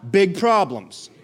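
slow, punchy BIG PROBLEMS, voice held up; big, emphatic callout. Shown as a demonstration. Preacher leads congregation to say big problems, emphatic callout. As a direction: make "big problems" sound big.

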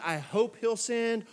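slow, tentative "I hope he'll send"; doubtful. Shown as a demonstration. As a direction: say it unsure, hoping.

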